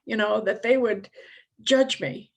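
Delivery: upset pleading. Retold or imitated. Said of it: "I'm like".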